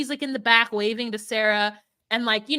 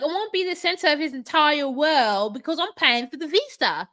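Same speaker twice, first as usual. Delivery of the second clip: lightly higher, entitled tone; mock girlfriend; 4 semitones higher than usual. Girlfriend declaring her terms, lightly voiced entitled mock. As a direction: say it like she's the boss. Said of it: "she's like".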